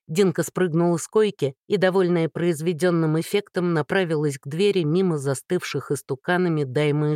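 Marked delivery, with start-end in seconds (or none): none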